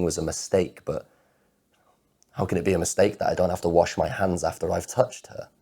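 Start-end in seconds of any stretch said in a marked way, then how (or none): 2.3-5.5 loud, impassioned outpouring; anguished protest. Acted. Man protesting that love isn't a mistake, anguished and loud. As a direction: plead it louder and louder, words pouring out.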